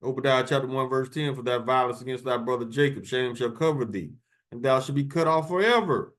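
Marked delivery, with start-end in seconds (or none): 1.3-6.1 quick, declaiming Bible reading; scripture reading. Acted. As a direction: read the verse like a street preacher. Reads scripture verse aloud.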